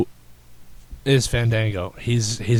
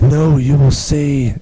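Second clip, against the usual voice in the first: Fandango's voice; 4 dB louder, slower than usual. Retold or imitated. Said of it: "I'm talking like that because that's how he talks".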